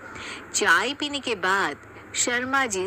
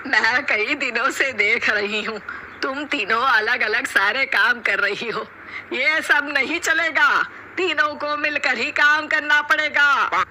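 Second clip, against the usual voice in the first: higher, louder scolding mother-in-law voice; stern mother-in-law; 3 semitones higher, 4 dB louder than usual. Acted. Mother-in-law scolding her three daughters-in-law, stern and raised. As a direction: lay down the law to the three bahus.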